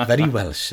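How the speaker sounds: very said high and loud; very Welsh with a lift on very; stress on very. Retold or imitated. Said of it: "as they say".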